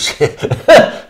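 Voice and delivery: a high, breathy burst of laughter; loud laugh. Real, not acted. Painter laughing after retelling the old Faroese man's joke.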